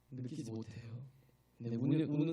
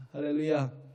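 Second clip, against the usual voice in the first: loud ringing call of praise; fervent loud hallelujah; shouted hallelujah; 9 dB louder than usual. Real, not acted. Preacher calls out praise.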